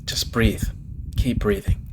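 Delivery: soft whispered calming; soothing whisper. Acted. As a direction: hush him so he breathes. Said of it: "She silenced me".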